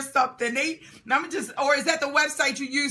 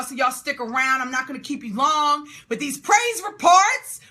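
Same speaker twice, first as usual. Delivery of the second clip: usual speaking voice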